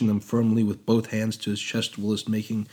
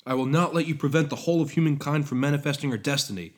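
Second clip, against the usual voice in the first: raised, defiant declaration; heroic shout; 5 semitones higher than usual. Acted. Prometheus defying his master, heroic shout. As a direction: stand firm like a hero. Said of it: "Prometheus shouted heroically".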